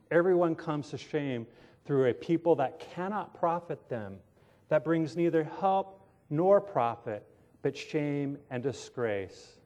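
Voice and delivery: measured, emphatic reading aloud; scripture reading. Acted. Preacher reads God's word to the congregation, measured scripture reading. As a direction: read the verses out with deliberate weight.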